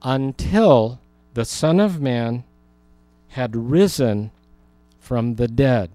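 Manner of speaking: slow, deliberate reading; read slowly. Shown as a demonstration. Teacher reads the verse slowly so the class catches it, slow and deliberate. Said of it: "I'll read this slowly".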